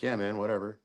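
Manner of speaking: laid-back, very calm mimicry; Jason. Imitating the calm partner as polar opposite, laid-back and unbothered. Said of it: "the exact polar opposite".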